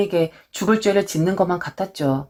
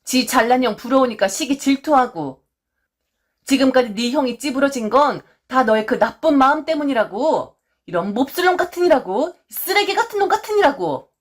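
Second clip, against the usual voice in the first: scolding mother; 4 semitones higher than usual. Retold or imitated. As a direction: voice the mother tearing into her son. Mother scolds son at birthday.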